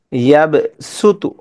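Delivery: ইয়াবসুতু drawn out slowly; slow recitation. Shown as a demonstration. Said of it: "ইয়াবসুতু সিন দিয়ে পড়ি".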